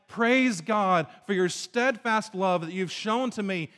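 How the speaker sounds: slow, grateful praise of God's love; praising. Retold or imitated. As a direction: give thanks sincerely and slowly. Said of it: "instead of God saying".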